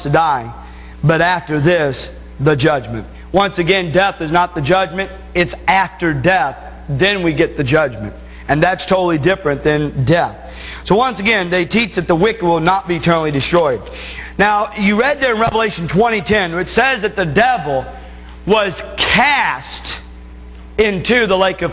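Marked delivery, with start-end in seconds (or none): none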